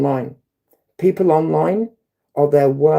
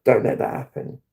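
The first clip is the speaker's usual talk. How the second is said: calm; 5 semitones lower than usual. Retold or imitated. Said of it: "I just tried to say really calmly".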